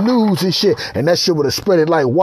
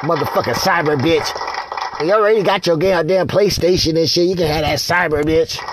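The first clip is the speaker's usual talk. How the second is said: dismissive. Acted. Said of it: "y'all gonna be like".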